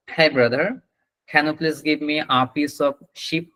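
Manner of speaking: slow polite request with "sheep" said short, like ship; mistaken short vowel. Acted. Customer at a meat shop asks the seller, mistaken short vowel in "sheep". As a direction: ask carefully, clipping "sheep" to ship. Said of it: "আপনি হচ্ছে এরকম বললেন".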